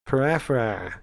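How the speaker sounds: tentative French try at "Per, eh, fair, eh"; attempted French. Shown as a demonstration. Learner unsure these noises are French, attempted French. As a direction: sound out "Per, eh, fair, eh" piece by piece. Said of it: "Am I speaking French".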